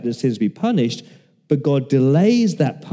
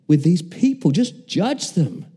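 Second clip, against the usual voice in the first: pleading cry; 4 semitones higher than usual. Retold or imitated. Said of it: "you want to cry".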